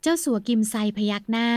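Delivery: ordinary delivery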